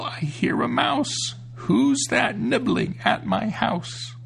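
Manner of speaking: put-on high, slow old witch voice; a witch creeping out her words; shrill witch voice. A narrator's reading. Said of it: "a shrill voice cry out".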